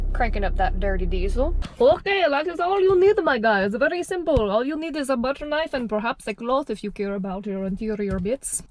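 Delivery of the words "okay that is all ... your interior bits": put-on a sudden, playful Russian accent; half-hearted Russian accent; mock Russian accent. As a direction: slip into a joking Russian accent mid-sentence. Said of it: "just became Russian all of a sudden".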